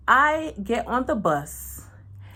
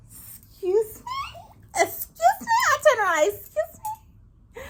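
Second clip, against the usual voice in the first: shocked excuse me. Retold or imitated. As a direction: stretch it high like you're scandalized. Shocked a stranger knows her.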